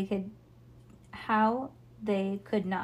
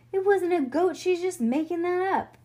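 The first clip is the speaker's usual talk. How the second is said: put-on exasperated child voice; 9 semitones higher, 5 dB louder than usual. Franny scoffing at Ivy.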